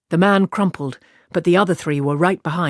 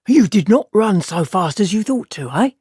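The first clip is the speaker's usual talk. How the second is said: a hint of a mocking foreign thug, a touch louder; lightly voiced sneering guildsman; 3 semitones higher, 3 dB louder than usual. Tammuz taunting Aludra after catching up with her, lightly mocking. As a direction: gloat over the cornered woman.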